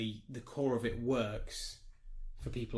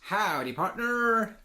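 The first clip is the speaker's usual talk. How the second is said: cowboy greeting; 8 semitones higher, 4 dB louder, much slower than usual. Pretend. Cowboy greeting for each follower.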